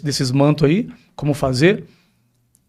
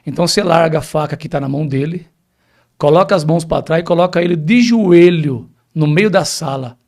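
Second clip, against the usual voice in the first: retold authoritative command; 4 dB louder than usual. Telling the pastor how he ordered a demon, forceful command. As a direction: command the demon firmly as you retell it.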